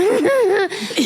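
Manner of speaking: high, raspy scratchy laugh from the back of the throat; Jennifer Lopez laugh. Shown as a demonstration. Showing the host how Jennifer Lopez laughs, a raspy high laugh. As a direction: toss off a high throaty giggle. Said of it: "kind of high pitch in the back of her throat".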